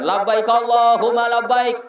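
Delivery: steady recited pilgrim call; leading the talbiyah. Retold or imitated. Guide calling the talbiyah on seeing the Kaaba, steady recitation. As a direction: lead elderly pilgrims in the talbiyah. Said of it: "saya lambaikan".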